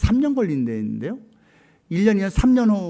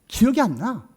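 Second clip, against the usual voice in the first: ordinary delivery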